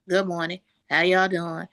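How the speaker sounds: loose, everyday greeting the way you talk at home; casual home talk. Retold or imitated. Mimicking untrained speech before ordering a kit, loose and casual. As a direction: say it like nobody trained you. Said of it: "My daddy talk like this".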